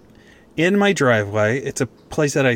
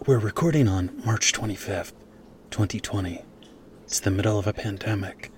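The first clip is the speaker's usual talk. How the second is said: Daily podcast host impression; 7 dB quieter than usual. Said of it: "imitation of, of the guy from The Daily".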